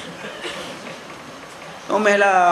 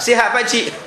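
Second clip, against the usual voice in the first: lively host; 3 semitones higher than usual. Acted. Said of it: "Tuan rumah kena cakap".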